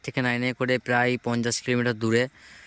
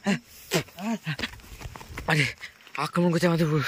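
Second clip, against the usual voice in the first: panicked cry; 5 semitones higher than usual. Real, not acted. Claims they are being attacked.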